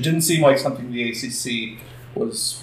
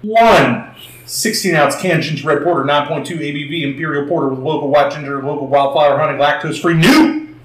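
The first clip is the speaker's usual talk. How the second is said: auctioneer voice. Pretend. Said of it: "I'm trying to do my best, uh, auctioneer voice".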